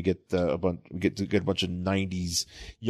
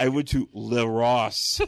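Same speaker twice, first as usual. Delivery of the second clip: laughing mock posh; 2 semitones higher, slower than usual. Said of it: "joking fancy French shop".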